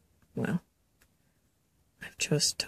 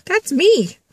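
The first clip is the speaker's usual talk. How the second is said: high, delighted squeal; playful high pitched glee; excited recognition; 12 semitones higher, 4 dB louder than usual. Retold or imitated. Psychic recognising herself in the message, high and delighted. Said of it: "I'm like, "Hey".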